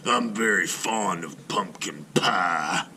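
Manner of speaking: slow, gruff grump; grumpy neighbor. Acted. Mister Klug tells the children about pie, slow and gruff. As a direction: savor it slowly like a stingy grump.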